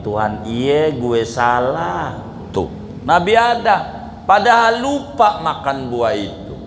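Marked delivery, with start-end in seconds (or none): 0.0-2.2 rough Betawi. Shown as a demonstration. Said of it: "bahasa Betawinya dengan kasar".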